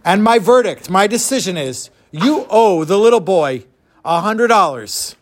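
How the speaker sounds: lightly voiced judge, measured and deliberate; pronouncing judge. Judge gives Eliezer his verdict, deliberate. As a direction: hand down a verdict weightily. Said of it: "So the judge says".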